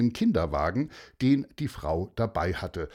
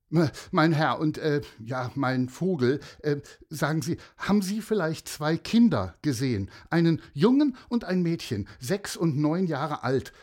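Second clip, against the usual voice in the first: hesitant, raised-pitch questioning; stumble, then hurry out the question; agitated, flustered; 5 semitones higher than usual. Acted. Upset mother asking strangers about two children, flustered. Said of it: "Sie war wirklich sehr aufgeregt".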